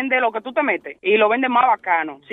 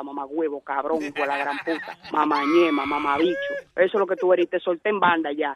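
menacing threat; 7 semitones lower than usual. Real, not acted. Victim threatens caller, slow and low.

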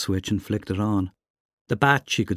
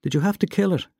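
dismayed; 9 semitones higher, faster than usual. Acted. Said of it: "She suddenly felt sick".

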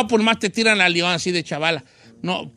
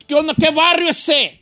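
cholo challenge, pitched up; slow cool street drawl; 6 semitones higher than usual. Pretend. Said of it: "tíreme barrio".

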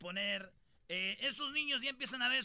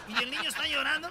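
laughing; 4 semitones higher, 5 dB louder, faster than usual. Real, not acted. Laughing while telling.

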